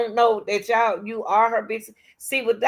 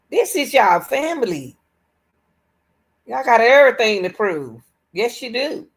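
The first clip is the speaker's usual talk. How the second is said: heated rant; 5 semitones higher, 6 dB louder than usual. Real, not acted.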